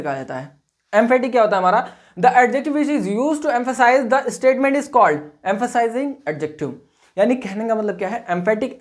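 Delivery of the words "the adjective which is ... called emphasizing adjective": every word spaced out for note-taking; slow dictation. Shown as a demonstration. Teacher slowly dictating the definition to her class. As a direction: read the definition slowly so students can copy it. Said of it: "dictating definition slowly".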